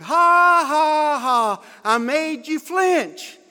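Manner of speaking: loud high taunting ha ha ha; mocking laugh. Teen mocking the flinching counselor, loud high taunting laugh. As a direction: hoot it at him, teasing. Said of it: "he hollered".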